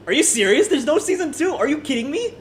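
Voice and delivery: incredulous, high-pitched Filipino accent; high, rising Filipino-accented outburst. Real, not acted. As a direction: let a Filipino accent burst out in loud disbelief. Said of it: "my Filipino accent escaped there".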